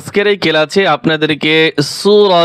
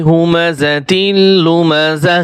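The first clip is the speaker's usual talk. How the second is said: Quran recitation. Shown as a demonstration. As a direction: recite melodically, stretching the long syllables.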